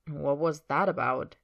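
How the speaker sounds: slow, understated curiosity; puzzled but unworried question; mildly curious. Acted. Man asks his companion about the sudden hiding, mildly curious. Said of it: "sounding more curious than concerned".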